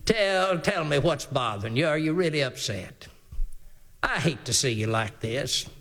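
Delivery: low, soothing, coaxing wife's voice; mock tender wife. Wife comforting her sulking husband, coaxing. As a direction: coax him gently like a doting mother.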